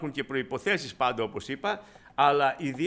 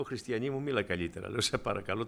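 softer, lower plea to speak properly; gentle shocked rebuke; 4 semitones lower, 5 dB quieter than usual. Retold or imitated. Preacher quietly scolding the young smoker for her tone. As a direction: hush her, startled. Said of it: "τρόμαξα, ταράχτηκα".

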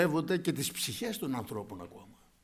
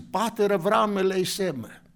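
a raised, higher, pleading call; crying out for mercy; 6 semitones higher, 7 dB louder than usual. Retold or imitated. Rich man in Hades begging Abraham, loud pleading cry. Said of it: "και φωνάζει".

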